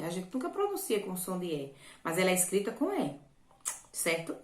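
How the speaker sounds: normal talking voice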